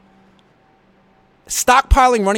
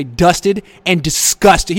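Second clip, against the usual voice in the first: E-40 impression; 5 dB louder, much slower than usual. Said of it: "As E forty would say".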